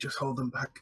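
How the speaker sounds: quiet, hushed whisper. Voicing Red, who whispers to Merrick and Ash: Red whispering quietly. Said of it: "what Red whispers, like, quietly".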